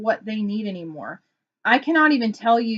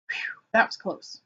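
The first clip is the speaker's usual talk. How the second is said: mock relief; 5 dB quieter than usual. Acting husband's relief after hiding feeling.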